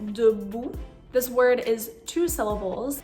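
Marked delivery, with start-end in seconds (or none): 0.1-0.7 debout said clearly in French, schwa in the first syllable; French pronunciation. Shown as a demonstration. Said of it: "take the tried and true example".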